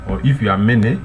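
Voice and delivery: ordinary delivery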